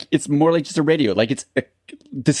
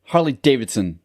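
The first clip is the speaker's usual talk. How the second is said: odd tone. Real, not acted. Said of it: "you said it with, like, a fucking weird tone talk".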